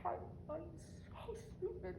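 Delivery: high, whispered despair; broken whisper. Acted. Worn down by self-blame, whispered despair. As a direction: barely get the words out. Breaking down.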